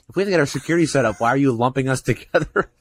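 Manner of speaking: indignant retort, words tumbling out; retold protest. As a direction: push back hard on the order. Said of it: "And I pushed back".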